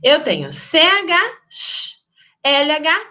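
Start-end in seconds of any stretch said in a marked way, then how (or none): 1.5-2.0 "sh" as one hushing consonant sound; isolated digraph sound. Shown as a demonstration. Teacher showing the single sound of C H, isolated digraph sound. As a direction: say "sh" alone, no letter names. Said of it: "duas letras que indicam apenas um".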